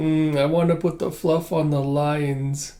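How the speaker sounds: slow, drawn-out sleep talk; lightly acted half-asleep mumble; sleepy child mumbling. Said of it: "Anya in bed being like".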